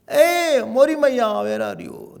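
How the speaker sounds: loud, high call to mother; acted child's eager call; sweet calling out. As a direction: call for her affectionately across the house. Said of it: "such a sweet expression was".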